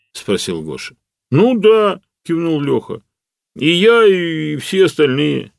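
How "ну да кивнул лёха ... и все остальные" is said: emphatic. A narrator's reading. Lyokha insists all are hungry.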